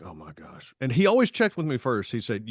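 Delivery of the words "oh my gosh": much softer, lower oh my gosh under the breath; nervous mutter. Retold or imitated. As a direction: dread it quietly to yourself. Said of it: "and I'd be like".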